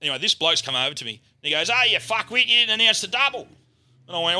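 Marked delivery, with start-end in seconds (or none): 1.7-3.5 high, louder mock outburst; angry complaint. Player rounds on the announcer over the double, angrily. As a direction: imitate an indignant accuser.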